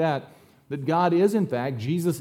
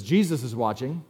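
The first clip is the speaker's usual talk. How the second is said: parrot voice. Acted. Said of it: "sees a parrot sitting there".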